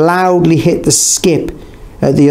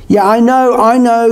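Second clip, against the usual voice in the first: higher-pitched, impatient cut-in; eye-rolling interruption; 9 semitones higher than usual. A narrator's reading. Norva breaks in on the instructions, eye-rolling impatience. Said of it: "Norva broke in, rolling her eyes".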